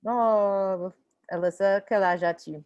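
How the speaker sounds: ordinary talk, nothing marked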